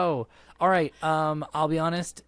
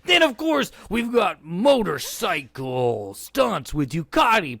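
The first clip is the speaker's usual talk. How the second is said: higher hyped announcer with echo; monster truck ad; 4 semitones higher than usual. Acted. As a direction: hype the stunt lineup like a radio spot. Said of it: "reading this as a monster truck advertisement".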